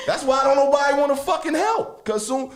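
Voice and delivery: high-pitched laughing outrage; laughing rant. Real, not acted. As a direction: laugh through the disbelief, pitch way up. Laughing rant about critics.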